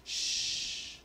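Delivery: hushed, confidential whisper; shush, then whisper it like a kindly secret; sweet whisper. Retold or imitated. Receptionist trying to help patient, sweet whisper. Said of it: "very sweetly, she wanted to help".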